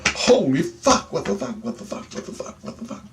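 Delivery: from stunned to whispered; fading into a whisper. Retold or imitated. Lying in bed after the vision, fading to a whisper. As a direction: let it drain down to a whisper.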